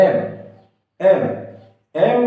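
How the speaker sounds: এম sounded out slowly, em with a clear opening e; letter sound demo. Shown as a demonstration. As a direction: sound out এম so the e vowel is heard first. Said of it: "প্রথম আখরটি উচ্চারণ করি". (এম ধীরে উচ্চারণ করে দেখানো)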